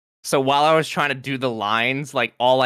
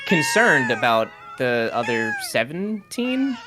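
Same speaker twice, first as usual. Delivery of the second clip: dramatic tearful; 10 semitones higher than usual. Acted. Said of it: "to make the most dramatic".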